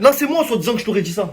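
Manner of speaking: high-pitched, incredulous protest; real indignation. Real, not acted. Man disputing words attributed to him, indignant and incredulous. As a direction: indignantly deny it. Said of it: "pourquoi je suis énervé".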